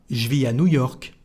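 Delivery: "je vis à" contracted to "zhvee ah"; "je vis" as one syllable, unlinked to "à"; no liaison. Shown as a demonstration. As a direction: keep the S of "vis" silent before "à". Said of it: "there is no liaison".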